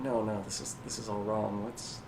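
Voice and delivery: soft, low-key muttering to himself; confused man mumbling under his voice. Acted. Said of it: "so you hear a mumbling".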